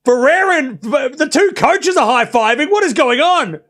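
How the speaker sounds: high, incredulous match call; astonished play-by-play; baffled commentary. Real, not acted. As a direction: react in disbelief, pitch lifted. Baffled live reaction to players' row.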